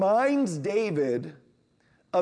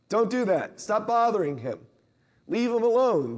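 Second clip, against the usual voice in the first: stern scolding; 4 semitones higher than usual. Retold or imitated. Disciples sending the parents away, a stern scolding.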